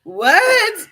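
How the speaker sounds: loud, high startled what. Real, not acted. Vlogger startled by the running toy, loud what. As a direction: jump at the sensation.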